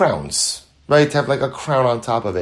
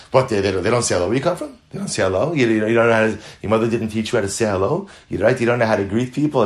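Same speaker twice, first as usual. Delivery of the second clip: a hint of a Jewish indignant kvetch; lightly voiced Jewish indignant questioning; faster than usual. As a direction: ask in a mild Jewish mock-indignant tone. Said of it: "only Jews talk like this".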